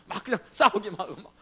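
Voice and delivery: mock quarrel. Mocking quarrelling Gyeongsang temper.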